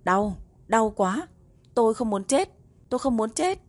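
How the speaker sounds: faint, gasping, breathless voice; running out of air. Acted. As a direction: gasp the words out, almost voiceless. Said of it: "nói giọng thều thào".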